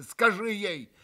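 begging his brother to stop her leaving; urgent plea. A narrator's reading. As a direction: insist urgently. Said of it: "стремительно обратился к брату Митя".

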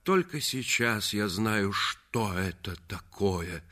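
slow, weighty declaration; husband spurning his wife; slow cold rejection. Acted. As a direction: lay it down slowly and firmly. Reggie coldly rejects wife.

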